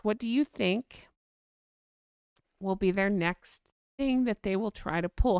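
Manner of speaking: ordinary talk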